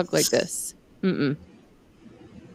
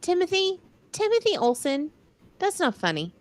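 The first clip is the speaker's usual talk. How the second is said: mock calling out; 11 semitones higher than usual. Calling out husband's teasing comment.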